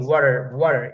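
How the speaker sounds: ওয়াটার with a tapped T, sounding wa-ra; ওয়াটার, T flapped like a light D; American water. Shown as a demonstration. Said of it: "American বলে ওয়াটার".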